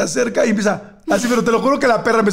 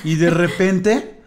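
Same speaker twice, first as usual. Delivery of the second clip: slow-motion talk; 2 semitones lower, much slower than usual. Retold or imitated. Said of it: "empezaba a hablar en slow".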